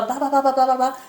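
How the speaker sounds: mocking fast English. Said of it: "fala um inglês, assim, muito rápido".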